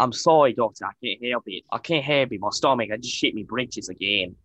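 a shaky attempt at an Irish accent; a bad, half-hearted Irish brogue; terrible Irish accent. Mental patient apologising to the doctor, in a terrible Irish accent. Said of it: "That was a terrible Irish accent".

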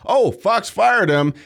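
hammed-up mock quote; mocking the left. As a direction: sneer it like a smug critic.

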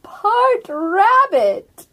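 a lightly voiced ancient turtle, slow and drawn out; slow old turtle. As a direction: speak as an unhurried old turtle, letting each word sink in.

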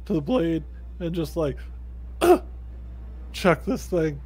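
effortful in-character voice; put-on character voice. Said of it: "that voice is actually kinda hard to do".

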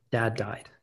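unvoiced, hushed retelling; whispered bad news. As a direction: let the words out in a whisper. Retelling news of father's death.

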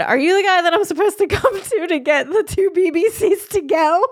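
retold request in a high, careful voice; high, innocent-sounding question. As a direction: reenact asking a stranger in a high voice. Retelling her awkward order to bartender.

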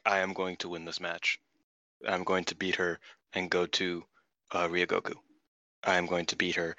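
flat, low, bored monotone; deadpan press-conference drone. Retold or imitated. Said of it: "they are very monotone".

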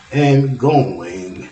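slow, loud and stretched; drawn out long. Real, not acted. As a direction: stretch each going out long.

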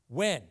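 when? lifted and held alone after a pause; single out when as a pointed question; when? set apart as its own question; stress on when. Shown as a demonstration. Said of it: "I love the word when".

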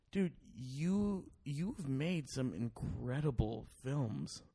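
slow, soft, imitated heart-to-heart; retold earnest praise. Telling the director his films are incredible, earnest and slow.

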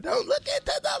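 high eerie warning voice; Poltergeist medium. Retold or imitated. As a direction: call into the light, high and spooky. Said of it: "go Poltergeist on y'all".

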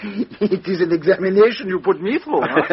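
speaks through a light chuckle; amused, laughing. Acted. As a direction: lets a laugh slip into the teasing line. Teasing exchange, laughter between detectives.

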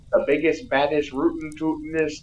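fanboy cowboy cop. Retold or imitated. Cop boasting about Turbo Man to the lady, hokey cowboy voice. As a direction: brag like a hick sheriff fanboy. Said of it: "so he was like".

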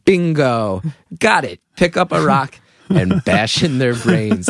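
measured echo, slowing on the instruction; kid taking note. Retold or imitated. Kid eavesdropping from the stairs, matter-of-fact resolve. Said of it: "And I was like".

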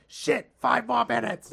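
put-on TV chef outburst; mock exasperated shout. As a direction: curse it out like a flustered chef. Imitating Ramsay's outburst over food.

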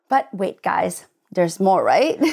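slow, salesy TV pitch; cheesy infomercial. Pretend. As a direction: sell it like a late-night TV ad. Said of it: "you sound like a cheesy infomercial".

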